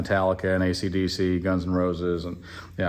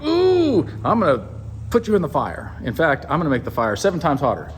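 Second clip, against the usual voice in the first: mock rage; 5 semitones higher than usual. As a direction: play-act a mad king making threats, pitched up. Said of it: "he gets really mad".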